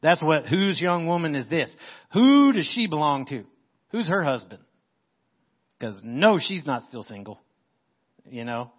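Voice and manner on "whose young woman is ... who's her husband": louder, urgent curiosity; eager questioning. Acted. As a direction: ask it with real heart behind it. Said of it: "if you put the heart behind the words".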